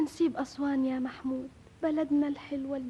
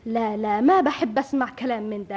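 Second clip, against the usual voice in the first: ordinary delivery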